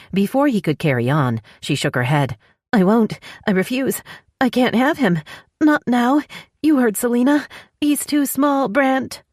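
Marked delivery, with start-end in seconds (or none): 2.7-9.2 high, pleading woman in pain; distressed pleading. Acted. Woman in labour begging Brant not to push, high and distressed. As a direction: beg him, voice climbing high and upset.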